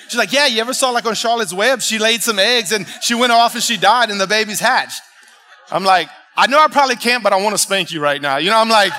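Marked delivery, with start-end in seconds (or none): 0.3-5.0 lightly voiced daughter, higher and louder; daughter explaining eagerly. Daughter telling dad about Charlotte's Web, eagerly imitated. 6.3-8.4 loud, raised mock threat; mock exasperation. Dad retorting to his teasing daughter, mock exasperated.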